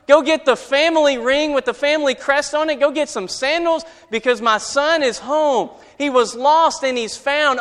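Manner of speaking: overjoyed father calling out orders; excited father. Acted. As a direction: call to the household, bursting with relief. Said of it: "Can you hear the excitement in the father's voice".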